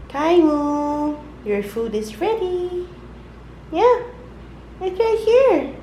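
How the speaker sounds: high call to another room; yelling across the room. Real, not acted. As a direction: call out that the food is ready. Calling someone to come eat.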